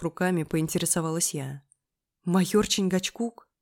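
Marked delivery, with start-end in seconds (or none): 2.2-3.5 slow, louder echo question. Acted. Narrator quizzes friend about the nickname, questioning. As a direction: repeat the name back, probing.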